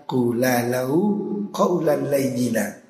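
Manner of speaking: slow recited Arabic verse; slow Quranic recitation. Acted. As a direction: draw the Arabic out slowly, half chanted. Quran verse quoted again.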